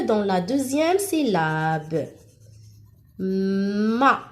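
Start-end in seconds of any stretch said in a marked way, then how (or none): 3.2-4.2 "Ma" with a long hummed m before the a; drawn-out m. Shown as a demonstration. Teacher showing the m sound, "Ma" stretched. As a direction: hold the m of "Ma", then open to a. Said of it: "J'entends le son mais avec A".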